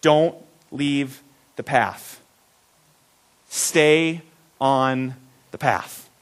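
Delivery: slow, low and deliberate, a dad's firm caution; slow fatherly warning. Retold or imitated. Father warning his boys at the rest stop, slow and earnest. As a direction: draw it out like a father leaning in. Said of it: "look at us close in the eyes and say".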